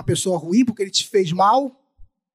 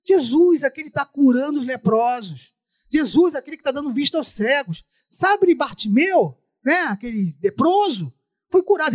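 excited; 4 semitones higher than usual. Acted. Neighbor tells Ruth the news.

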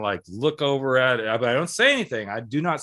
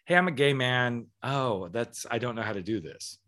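sarcastic. Retold or imitated. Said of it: "Your sarcasm. It's so thick".

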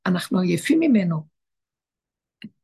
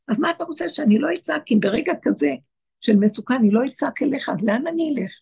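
pleading reply; 5 semitones higher than usual. Retold or imitated. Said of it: "מה אומר לו".

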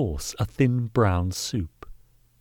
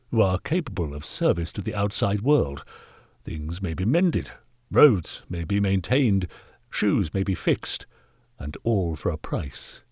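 stern knight. Acted. Voices Sir Kingdom.

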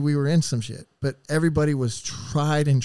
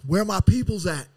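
challenging call; 5 semitones higher than usual. Retold or imitated. Inmate kicking off shoes, calling for his people, taunting. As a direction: call out your crew before the fight. Rival inmate charging at him.

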